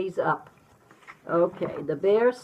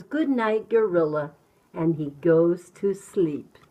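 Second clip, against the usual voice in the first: measured bedtime picture-book narration; reading to children; slower than usual. A narrator's reading. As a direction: tell it simply to a small child.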